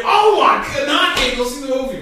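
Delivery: high, loud fast whine; whiny mock complaint. Imitating upset fans, high and whiny. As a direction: mimic a fussy moviegoer.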